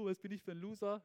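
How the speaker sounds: lightly acted self-reproach; mock self-doubt. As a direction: act out a sudden loser thought. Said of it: "plötzlich denkst du".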